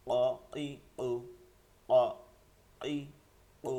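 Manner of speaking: measured, separate "অ", "ই", "ও", each struck heavily from the tongue root; heavy qaf drill. Shown as a demonstration. Teacher spells qaf with each vowel, heavy voice. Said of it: "ভারী আওয়াজে".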